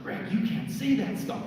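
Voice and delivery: high mock scold from the wife; imitating wife scolding. Wife scolds him for teasing the scammer, high mock scold. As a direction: pitch it up and tut at him like his wife.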